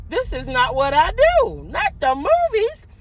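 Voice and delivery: retold mild panic, pitch climbing high at the end; mildly freaking out. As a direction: replay a small freak-out, voice rising. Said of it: "started freaking out a little bit".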